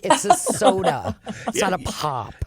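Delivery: laughing correction. Retold or imitated. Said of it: "And they're like".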